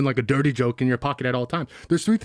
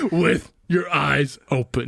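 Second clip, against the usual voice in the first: laughing; much slower than usual. Real, not acted. Joking through laughter.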